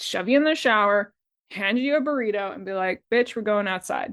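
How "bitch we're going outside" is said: mock affectionate, lovingly bossy voice. Acting out a best friend dragging someone outside: imitating a lovingly bossy friend. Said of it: "in the most loving kind of way".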